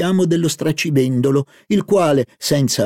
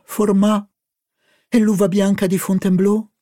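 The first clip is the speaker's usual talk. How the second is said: put-on higher, lively girlish voice; eager young woman; 7 semitones higher than usual. Narrator voicing Albertine excited about the market food. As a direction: play Albertine, greedy and delighted.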